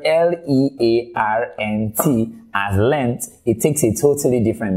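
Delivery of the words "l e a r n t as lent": slow lent. Shown as a demonstration. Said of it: "pronounce it as".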